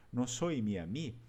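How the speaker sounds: soy said slowly with a rising tune; No soy mia mi, slow and rising like a question; Venetian question form. Shown as a demonstration. Teacher modelling the Venetian question slowly, rising. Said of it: "a inversão interrogativa é sempre aplicada no verbo".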